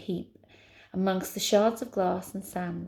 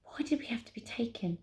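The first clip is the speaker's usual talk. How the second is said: intense, high whisper; silent desperate scream; 4 semitones higher, 8 dB quieter than usual. A narrator's reading. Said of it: "silently screaming her desperate questions".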